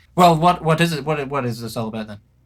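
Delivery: very loud, booming, proclaiming delivery. Narrating a woman who sits up after being woken, in a loud announcement. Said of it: "announces quite loudly".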